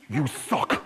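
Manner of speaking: put-on flat, far teen jeer; deadpan teenage verdict; blunt teenager. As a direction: teenagers heckling a bad storyteller, deadpan. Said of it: "they go".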